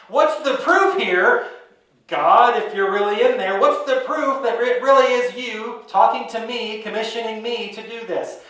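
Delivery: pleading demand. Retold or imitated. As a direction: demand proof out loud. Moses demanding proof from God.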